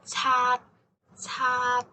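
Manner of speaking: Tat ending with tongue held, no release; Tat, the T stopped silent; unreleased T. Shown as a demonstration. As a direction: Tat closed off at the end. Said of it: "don't let the strong airflow out".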